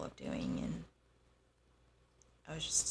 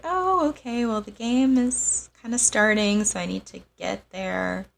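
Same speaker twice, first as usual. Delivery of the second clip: higher and louder, urging him to hurry; retold anxious plea, pitched up; nervous insisting; 5 semitones higher, 7 dB louder than usual. Retold reply, game already starting.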